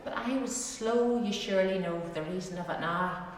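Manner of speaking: measured dialect poem reading, rhythmic; poem recitation. Acted. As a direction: recite it like a fireside rhyme. Reads a dialect poem aloud.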